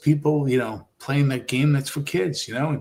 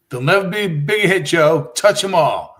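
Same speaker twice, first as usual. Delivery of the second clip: quoted sports call, louder; excited home run call; 3 semitones higher, 6 dB louder than usual. Retold or imitated. Recalling Joe Carter's World Series homer, excited announcer call. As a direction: call the big homer with punch.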